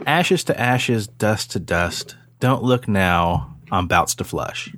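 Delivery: put-on slow solemn old-timey recital. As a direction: intone it like an old-fashioned announcer, very slow. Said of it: "I'd say it like an old-timey voice".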